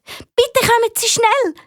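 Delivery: high-pitched, drawn-out urgent plea; very agitated. Acted. Amy begging the fire brigade to come, agitated. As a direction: plead for help at once. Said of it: "sagt Amy ganz aufgeregt".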